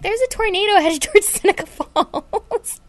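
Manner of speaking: hammed-up worried mother; imitating alarmed mom. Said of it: "She's like".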